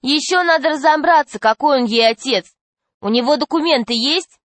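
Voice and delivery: put-on challenging girl. A narrator's reading. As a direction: question his claim pointedly. Girl challenges the fat man.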